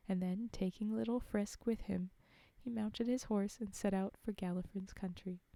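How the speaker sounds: measured fairy-tale reading voice; clearly projected storytelling; story narration. A narrator's reading. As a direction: read it aloud like a storybook. Reads a fairy tale aloud.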